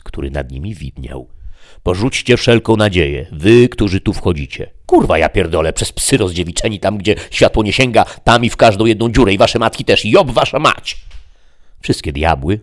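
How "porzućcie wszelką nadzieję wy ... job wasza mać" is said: loud, raised, cursing at the top of his voice; a defiant hellish shout; shouted curses. Acted. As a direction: bellow it like hell's own motto.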